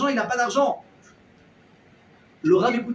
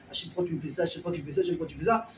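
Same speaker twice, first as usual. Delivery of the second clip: mock lament; 3 semitones lower, 5 dB quieter, much faster than usual. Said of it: "Et il pleure".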